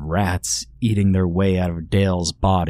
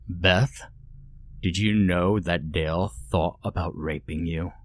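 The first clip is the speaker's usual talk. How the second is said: soft menacing villain; 7 dB quieter than usual. Acted. Villain taunting a captive.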